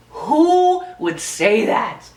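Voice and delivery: drawn-out, disbelieving; slow incredulous repeat. Shown as a demonstration. Repeating her question slowly in disbelief. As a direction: stretch each word in disbelief. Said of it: "first take plainer".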